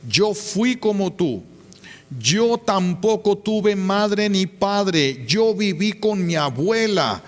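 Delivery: a hint of a hardened inmate lecturing; inmate's warning. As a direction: lean in and warn her slowly. Inmate confronts girl in retelling.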